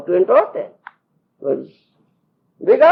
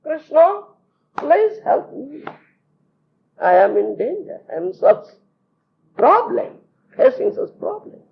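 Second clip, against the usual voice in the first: high pleading voice calling on Krishna; pleading prayer; 6 semitones higher than usual. Retold or imitated. Draupadi praying to Krishna for help, high pleading voice. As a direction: beg for help, pitched up and anxious. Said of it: "She prayed to Lord Krishna".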